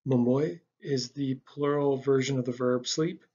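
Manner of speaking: usual speaking voice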